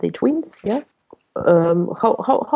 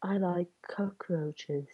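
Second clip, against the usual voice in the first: slow breathy sexy whisper; 3 semitones lower, 15 dB quieter, slower than usual. Pretend. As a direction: whisper it seductively, slowly. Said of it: "but with a sexy voice".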